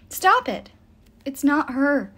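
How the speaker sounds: high, loud, upset plea; tearful protest. A narrator's reading. Nico defends the nymph to Will, upset and sniffling. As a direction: blurt it out through sniffles. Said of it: "Nico sniffled".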